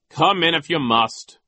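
high, loud, drawn-out grudging vice principal; pompous high-pitched school official; Nero. A narrator's reading. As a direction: let them in grudgingly, high and slow. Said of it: "Nero said".

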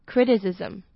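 criticism said slowly, ending in a clear "zm" sound; slow careful criticism. Shown as a demonstration. Teacher shows learners the criticism ending, slowly. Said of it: "S M呢是发 zm的音".

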